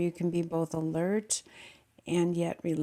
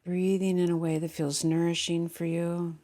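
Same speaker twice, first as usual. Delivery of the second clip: calm meditation guide with long pauses; unhurried guiding voice, settling listeners into the body; guided meditation. Real, not acted. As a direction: lead them gently inward, leaving long silences.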